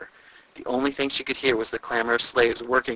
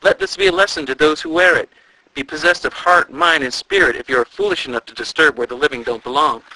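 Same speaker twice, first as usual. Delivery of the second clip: ghostly warning call; 4 semitones higher, 6 dB louder than usual. A narrator's reading. Distant voice keeps warning.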